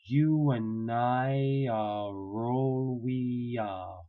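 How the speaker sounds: "you and I are all we are" stretched out, word by word; very slow. Shown as a demonstration. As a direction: drag each linked word out. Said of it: "if you know your phonemic symbols".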